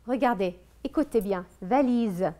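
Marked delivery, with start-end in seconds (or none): 1.6-2.3 "Valise" ending on a buzzed z; Z sound. Shown as a demonstration. Teacher asks for careful listening, "Valise" with final z. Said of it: "c'est le son Z".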